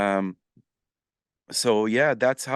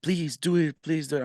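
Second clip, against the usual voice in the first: mock pleading; 5 semitones higher than usual. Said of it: "She's like".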